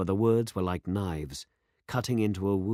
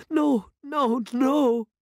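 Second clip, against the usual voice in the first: much higher and louder frightened no, no, no; crying out; 8 dB louder, much slower than usual. A narrator's reading. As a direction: cry out in horror, high and loud. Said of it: "she cried".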